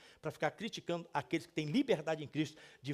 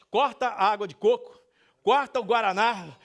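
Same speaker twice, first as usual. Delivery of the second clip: loud, emphatic mock order to the table; acted loud order; 2 semitones higher, 9 dB louder than usual. Pastor retelling a restaurant order, calling out loudly. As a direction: call out the cancellation loudly. Acting out cancelling the drinks order.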